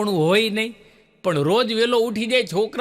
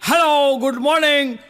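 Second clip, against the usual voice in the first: put-on old villager's greeting; 7 semitones higher, 5 dB louder than usual. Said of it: "Chhagan બાપુ બોલ્યા".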